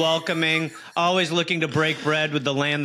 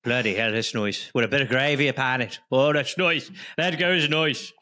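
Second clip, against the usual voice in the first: mock Irish accent. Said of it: "the problem with your accent right now".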